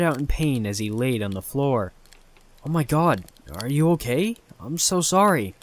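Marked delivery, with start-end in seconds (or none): 2.6-5.5 higher, rushed worried apology; frantic apology. Acted. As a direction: panic and apologize. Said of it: "I frantically apologized".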